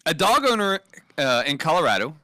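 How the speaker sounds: measured news-story reading; headline read-out. Real, not acted. Co-host presenting a headline to Ben, measured news read.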